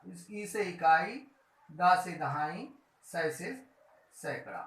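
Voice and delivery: slowly, each starting sound stressed: "ई" for इकाई, "दा" for दहाई, "सै" for सैकड़ा. Shown as a demonstration. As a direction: spell out the first sounds like a teacher, slowly. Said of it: "teacher sounding out initial syllables". (पहले अक्षर पर ज़ोर देकर धीरे-धीरे: "ई", "दा", "सै")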